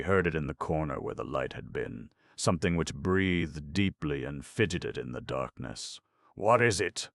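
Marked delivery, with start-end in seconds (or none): 6.3-7.1 higher, louder startled question; alarmed question. Acted. Sitter to the dark room, a startled frightened question. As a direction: ask in sudden alarm.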